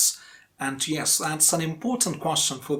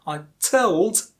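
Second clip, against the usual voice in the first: TOLD stretched and strong after a light I; stress on TOLD. Shown as a demonstration. Teacher pointing out the first stressed word, TOLD prominent. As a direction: lean hard on told. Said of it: "told is one stressed one".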